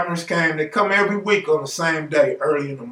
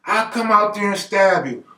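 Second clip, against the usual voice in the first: pitched-up bluffing threat; mock threat; 4 semitones higher than usual. Bobby bluffing at the gardeners, mock threat. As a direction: threaten them in a raised, higher voice. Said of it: "He's threatening them and everything".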